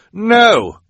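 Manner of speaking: very high, loud shout; alarmed cry. A narrator's reading. Quigley interrupting Esme's threat, alarmed cry. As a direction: cut in with a cry to stop her. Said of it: "Quigley cried".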